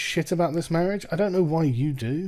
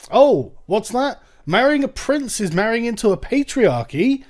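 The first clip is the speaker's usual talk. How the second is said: mock surprise; 7 semitones higher, 4 dB louder than usual. Mock reaction to article.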